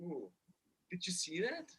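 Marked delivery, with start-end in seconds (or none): 0.0-0.3 surprised gasp. Real, not acted. Notices marking in the score.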